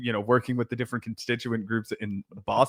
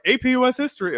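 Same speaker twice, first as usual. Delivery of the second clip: high-pitched mock teacher voice; imitating a teacher announcing the course; class announcement; 11 semitones higher, faster than usual. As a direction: put on a high, singsong class intro. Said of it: "it felt like every fucking class, it would just be like".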